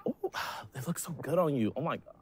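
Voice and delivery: a hint of a chatty girl, barely shifted; lightly voiced woman. Man playing a woman admiring shoes, lightly voiced. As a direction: gush about her shoes in a light girly voice. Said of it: "Switch into a female".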